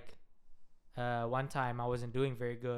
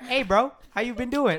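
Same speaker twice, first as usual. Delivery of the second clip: louder, higher loose bro greeting; high loud casual hey man; African American slang; 9 semitones higher, 10 dB louder than usual. Shown as a demonstration. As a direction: hype it like greeting a basketball friend.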